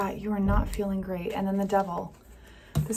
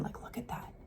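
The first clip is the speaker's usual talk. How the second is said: hushed whisper, marvelling at the cards; 18 dB quieter than usual. Real, not acted. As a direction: breathe it out under your breath, intrigued.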